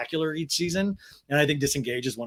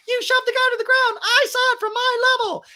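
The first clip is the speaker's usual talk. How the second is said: put-on squeaky, far higher little-girl voice; tiny Little Lala voice; 7 dB louder than usual. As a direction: pipe it up like a tiny child. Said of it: "Little Lala's like".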